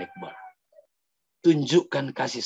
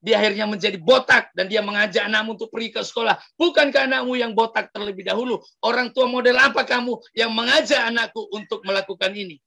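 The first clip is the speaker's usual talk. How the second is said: a high, raised, accusing voice; angry shout; 6 semitones higher than usual. Acted. Father yelling at the neighbour's parents outside, raised angry voice. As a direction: scold the neighbours from outside their house. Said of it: "Dan dia teriak dari luar".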